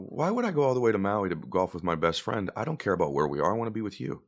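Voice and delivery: soft, low, gently reassuring; tender. Retold or imitated. Dad tells son he just wants his company, tender. Late father tenderly declines the trip.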